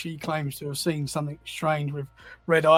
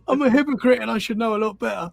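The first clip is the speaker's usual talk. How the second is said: higher, louder, through laughter; laughing admission; 5 semitones higher, 5 dB louder than usual. Real, not acted. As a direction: own up while laughing at yourself. Teased, laughs at himself.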